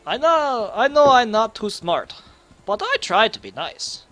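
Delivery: a lightly voiced simple ogre pleading; half ogre trying to be nice to the dwarf; dim half ogre.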